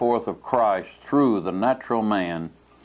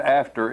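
"after" lifted and pressed, set off by a pause; stress on after; 3 semitones higher than usual. Shown as a demonstration. Preacher driving home the word for the church, "after" stressed. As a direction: lean hard on "after". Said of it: "I place a great stress on the word".

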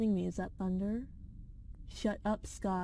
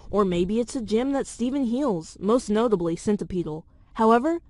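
script reading. Acted. Reads theory script aloud.

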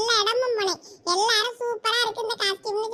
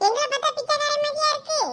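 faster, pushier repeat with மாதிரியா stressed; second take, more insistent; repeated indignant question; 5 semitones higher, faster than usual. Acted. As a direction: fire it back harder the second time. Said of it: "புடி".

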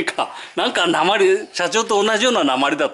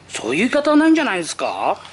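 firm protest; 2 semitones higher, faster than usual. Retold or imitated. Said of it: "この前言ってやったもん".

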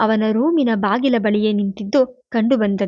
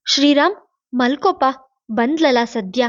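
calling out; 3 semitones higher than usual. Acted. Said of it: "ಕೂಗಿ ಹೇಳಿದ್ರು".

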